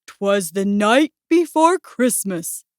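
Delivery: lightly pompous recitation; pronouncing. A narrator's reading. Bear reads his poem to Mouse, slow pronouncing. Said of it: "Bear pronounced".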